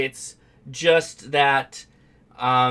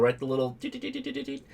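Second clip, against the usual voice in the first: imitated Morse beeps; 9 semitones higher, 5 dB quieter, faster than usual. Shown as a demonstration. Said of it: "demonstrating paddle keying sound".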